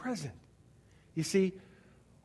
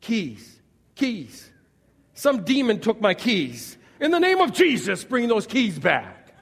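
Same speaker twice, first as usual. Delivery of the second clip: frantic, much louder, high cry over lost keys; mock panic; 5 semitones higher, 8 dB louder, slower than usual. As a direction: ham up a panicked prayer for the keys, laughing at the end. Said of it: "You run back out and you go".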